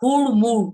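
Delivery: হুড়মুড় with a clear flapped ড় on each syllable; stressed ড় demo. Shown as a demonstration. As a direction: say "হুড়মুড়" with a crisp ড়. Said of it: "কেন ভাবে বলছি".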